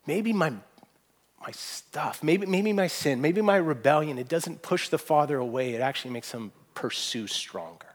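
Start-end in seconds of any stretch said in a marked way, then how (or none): 0.1-4.2 slow musing. Real, not acted.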